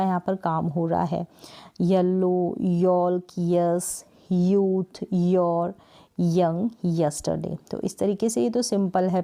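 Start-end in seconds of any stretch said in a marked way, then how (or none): 1.8-7.6 each word from येलो to यस्टरडे opened with a clear य sound; Y as consonant. Shown as a demonstration. Teacher showing Y at the start of words, clear य sound. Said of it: "इसका sound य करके आता है".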